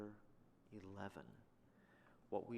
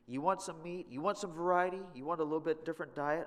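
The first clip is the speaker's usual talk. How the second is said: raised, sarcastic questions; mock sarcasm; 5 semitones higher, 5 dB louder than usual. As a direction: taunt them as God. Preacher voices God mocking demand.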